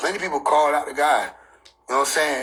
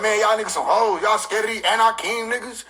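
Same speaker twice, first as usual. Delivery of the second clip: mock angry God; 4 semitones higher than usual.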